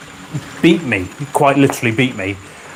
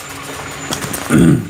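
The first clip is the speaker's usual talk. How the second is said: throat clearing; 3 semitones higher than usual. Real, not acted. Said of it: "Don't cough".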